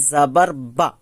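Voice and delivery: বা with a short, quick a, not stretched; short jabar vowel. Shown as a demonstration. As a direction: say বা briskly, no pull. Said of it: "টান দেওয়া নিষেধ". (জাবারের বা ছোট টানে)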